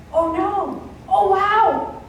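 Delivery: rising string of stunned gasps, pitch climbing; shocked dismay. Retold or imitated. Sister texting back, mock horrified. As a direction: pile on the shock, one gasp after another. Sister reacting to hair photos.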